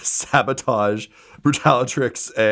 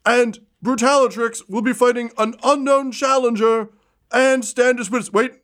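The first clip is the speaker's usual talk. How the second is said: high, hurried ringside patter; flustered arena announcer; 11 semitones higher than usual. Acted. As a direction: keep the crowd calm while panicking. Announcer scrambling on the mic.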